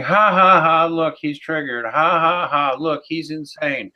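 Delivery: mock followers jeering a critic; mocking taunt. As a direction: taunt like a smug troll. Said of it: "they will start saying".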